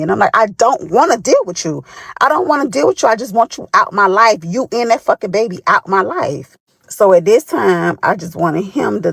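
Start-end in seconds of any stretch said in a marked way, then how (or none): 0.4-6.6 higher, pushing, exasperated replay; heated retort. Retold or imitated. Woman on phone telling her ex to leave, heated. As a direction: fling it at him to end the call.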